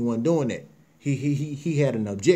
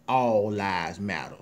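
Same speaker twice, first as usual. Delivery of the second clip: mocking all lives matter; 5 semitones lower, slower than usual. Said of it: "now they trying to say".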